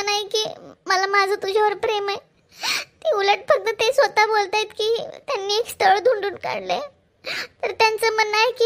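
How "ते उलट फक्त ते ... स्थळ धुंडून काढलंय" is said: crying. Acted. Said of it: "Janhvi रडू नकोस ना आधी".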